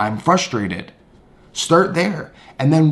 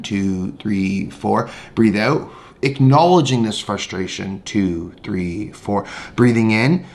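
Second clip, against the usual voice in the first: slow, lower guided counting; guided breathing demo; 3 semitones lower, slower than usual. Shown as a demonstration. Teacher demonstrating noting frustration while breathing. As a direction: model the noting breath calmly. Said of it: "I would do this".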